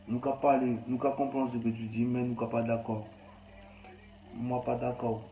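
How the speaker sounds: put-on Creole accent; lightly played Creole, badly done; rough Creole accent. Streamer objecting in Creole to his audience, rough Creole accent. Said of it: "mon créole, mon accent est dégueulasse".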